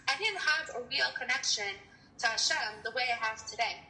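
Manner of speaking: speech a bit off after oral surgery; talking after oral surgery. Real, not acted. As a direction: talk with a sore mouth after dental surgery. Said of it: "I'm sorry I'm talking weird".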